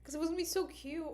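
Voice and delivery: high, fast, laughing through disappointment; half-laugh, half-wail it out; laughing lament. Real, not acted. Vlogger mourning the lost plushie, laughing.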